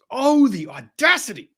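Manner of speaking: high, slow, hammed-up disbelief; drawn-out theatrical scandalised gasp; mock indignation.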